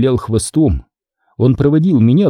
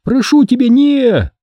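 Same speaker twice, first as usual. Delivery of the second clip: pleading call; 12 semitones higher than usual. A narrator's reading. Mother calls after son.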